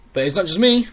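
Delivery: triumphant reveal. Retold or imitated. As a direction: reveal the backup, smug. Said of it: "Drew goes".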